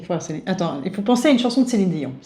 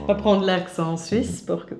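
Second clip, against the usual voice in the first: slow mock Swiss; 5 dB quieter, slower than usual. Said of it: "Tu vas parler lent".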